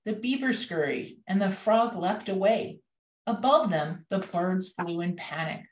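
measured picture-book narration with expressive lifts; story read-aloud. A narrator's reading. Reading a picture book as a thank-you to teachers, storytelling. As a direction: read the story aloud, pausing between phrases.

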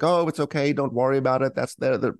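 high, soothing mock reassurance; mock mothering. Excusing a rude employee, hammed-up mothering tone. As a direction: coo it like a fussing mother. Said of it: "nurturing them and mothering them".

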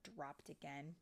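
animated read-aloud with lingering key words; storybook narration. A narrator's reading. Storyteller reading fairy tale to children, animated narration. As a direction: tell it dramatically to young children.

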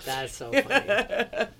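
slow, laughing "funny". Real, not acted. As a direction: laugh the words out.

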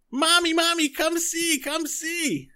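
put-on high, loud childish calling, fading to a whisper; excited monster child. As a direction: call for mommy like an eager monster kid. Monster child calls its mother.

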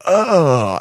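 drawn-out mock moan; crowd moan. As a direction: moan like a swooning audience. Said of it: "and then everyone's like".

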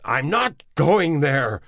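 high, loud and slow, NOT hit hard; loud slow refusal, stress on NOT; shouting. Acted. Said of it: "Neville shouted".

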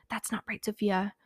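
softly voiced inner critic; little critical voice. The little voice in your head telling you off, softly critical. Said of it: "the little critical voice in your head".

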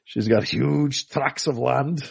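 slow, put-on voice; king's line. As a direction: savor each word slowly in a put-on voice. King's line from Monty Python.

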